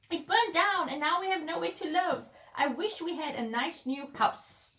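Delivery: a hint of a lamenting mother mouse; squeaking mother mouse. A narrator's reading. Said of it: "squeaked the mother mouse".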